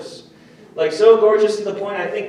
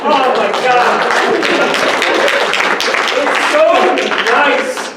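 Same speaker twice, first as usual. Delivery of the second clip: very drawn-out, loud gushing; hammed-up happy gushing; mock delight; 6 semitones higher, 8 dB louder, much slower than usual. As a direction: gush as if it's the best news ever. Comic mock joy continues.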